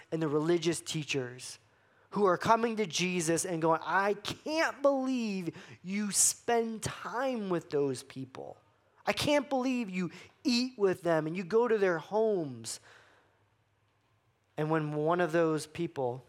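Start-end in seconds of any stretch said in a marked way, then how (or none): 3.8-12.8 slow, higher mock-indignant Pharisee voice; grumbling older brother. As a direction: drag it out like a self-righteous brother.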